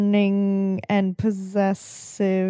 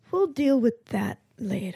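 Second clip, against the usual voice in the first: lightly whispered aside, softer; whispering; 6 dB quieter than usual. Acted. Player whispers to Jackie about dealing with it later, whispering. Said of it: "I whisper to Jackie".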